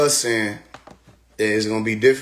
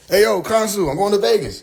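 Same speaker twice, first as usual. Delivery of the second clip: mocking voice; 8 semitones higher, 3 dB louder than usual. Mocking others' words.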